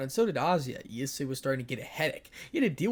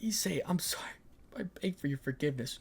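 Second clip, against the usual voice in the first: tearful whisper; 3 semitones higher, 3 dB quieter than usual. Acted. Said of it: "Ria started to cry".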